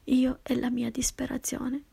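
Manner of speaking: usual speaking voice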